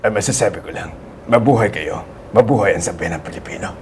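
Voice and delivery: low, subdued action-star voice; FPJ. Shown as a demonstration. Voice actor salutes the Filipino people, low FPJ impression. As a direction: say it low, like a movie hero. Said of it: "F P J".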